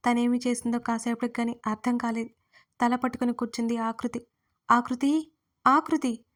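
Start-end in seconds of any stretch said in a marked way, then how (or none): 4.7-5.3 louder first call, rising at the end. Acted. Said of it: "Sumitra అరుపుతో". 5.7-6.2 louder second call, falling firmly. Acted. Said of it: "Sumitra అరుపుతో".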